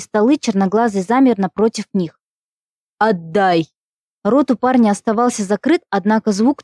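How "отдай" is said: low hollow monster voice; through a tube. A narrator's reading. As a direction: speak as if down a pipe. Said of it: "Голос был низкий, похожий на мужской, будто кто-то говорил в трубу".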